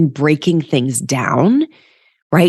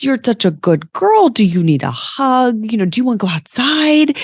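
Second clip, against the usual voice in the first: high sing-song voice for a dog; sing-song baby voice; 7 semitones higher than usual. Pretend. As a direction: coo at your dog like a baby. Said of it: "sing-song baby voice".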